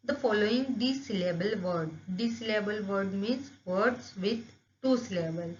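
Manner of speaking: "there are certain words" read slowly, word by word, like dictation; slow textbook reading. Acted. Teacher to students, reading the book aloud slowly. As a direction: read each English phrase slowly and clearly for the class.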